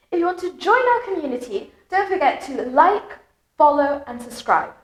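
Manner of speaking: sing-song model reading, punching key words such as best, general, business; melodic sentence stress. Shown as a demonstration. English teacher reads a sample paragraph to learners, melodic stress on key words. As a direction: stress content words like best and friendly, glide over connecting words. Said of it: "Notice that sounds quite melodic".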